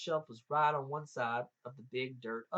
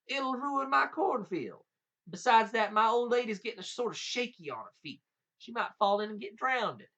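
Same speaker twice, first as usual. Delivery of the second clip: lightly voiced giant, higher and louder; worried giant; 8 semitones higher, 6 dB louder than usual. A narrator's reading. Giant talking Jack out of moving the creek, worried. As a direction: plead your case in a raised storybook voice.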